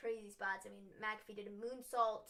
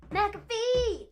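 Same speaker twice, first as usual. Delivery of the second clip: high, loud yell of a name; calling out; 10 semitones higher, 11 dB louder than usual. Pretend. Co-host insisting on the wrestler's name to the host, hollered high and loud. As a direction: holler it out like a hype call.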